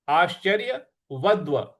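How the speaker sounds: आश्चर्यवद्व with द्व pressed; stress on द्व. Shown as a demonstration. Teacher showing students where to press, द्व stressed. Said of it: "उस पर हमको आघात देना है".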